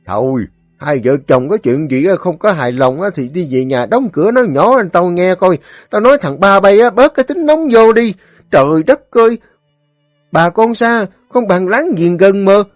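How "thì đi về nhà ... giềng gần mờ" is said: very high, loud pleading lecture; urgent remonstrance. A narrator's reading. Elder urges the quarrelling couple and neighbours to make peace, urgent. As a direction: plead for peace at raised pitch.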